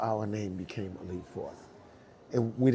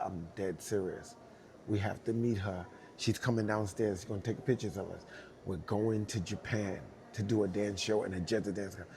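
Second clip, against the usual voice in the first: hushed insistence; 3 semitones lower, 6 dB quieter than usual. Retold or imitated. Hushed insistence to disbelieving friend.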